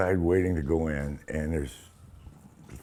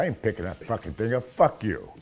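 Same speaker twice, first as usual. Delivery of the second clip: in-character defiance; 3 semitones higher than usual. Acted. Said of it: "But we did it in character".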